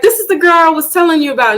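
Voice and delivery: fast, high, eager show-off; imitating the sister's quick excited introduction. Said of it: "and she's like".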